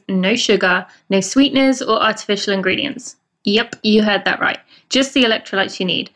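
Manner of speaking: scripted podcast ad voice; even, polished promo read; sponsor ad read. Real, not acted. Reads a sponsor ad.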